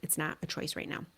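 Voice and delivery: put-on quiet, quick, calm no to the child; quiet steady boundary, dropping to a whisper at the end; calm firm script. Shown as a demonstration. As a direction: hold the line softly and quickly. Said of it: "we're just gonna say".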